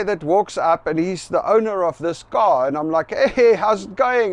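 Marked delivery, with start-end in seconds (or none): 3.1-4.3 friendly greeting. Retold or imitated. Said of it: "I'm still friendly".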